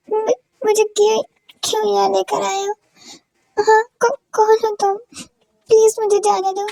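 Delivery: a captive begging in fear; scared stammer. Acted. Kidnapped girl wakes up scared.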